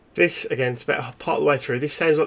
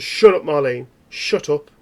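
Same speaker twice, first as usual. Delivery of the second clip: menacing snap; 6 dB louder than usual. Acted. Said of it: "He just goes".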